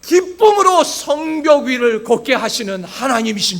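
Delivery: loud, emphatic declaration of faith; forceful preaching. Acted. Pastor declaring faith to the congregation, forceful preaching. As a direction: build into a firm pulpit proclamation.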